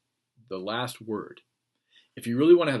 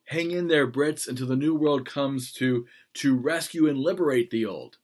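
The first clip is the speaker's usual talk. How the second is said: weak version; 3 semitones higher, 5 dB louder than usual. Retold or imitated. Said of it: "he would have said".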